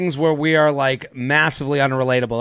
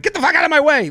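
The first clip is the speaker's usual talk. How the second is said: mock desperate yell; 12 semitones higher, 4 dB louder, faster than usual. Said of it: "I was like".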